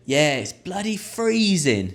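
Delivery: high, slow barman agreeing; barman reply. Shown as a demonstration. Barman replying to a punter, high and slow. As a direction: answer like a cheery barman.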